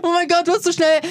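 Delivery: high laughing outburst. Real, not acted. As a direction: squeal it through laughter. Laughing after losing noise game.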